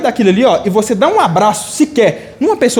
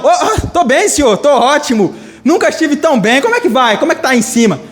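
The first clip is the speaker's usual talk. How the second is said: higher-pitched, over-keen small talk; bluffing Adam; 4 semitones higher than usual. Acted. Adam covering up before God, high bluffing chatter. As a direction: act innocent, starting high and stumbling in.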